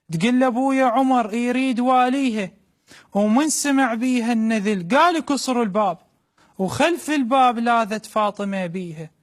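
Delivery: mother's voice in Iraqi dialect; iraqi arabic accent. Acted. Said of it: "بلهجة عراقية خالصة".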